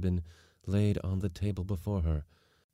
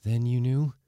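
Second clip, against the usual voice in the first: tentative, higher-pitched question; faltering; 6 semitones higher, 5 dB louder than usual. A narrator's reading. Daughter asking whether father knew of her trip, faltering. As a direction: pluck up courage to ask, voice lifted. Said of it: "took courage to falter out".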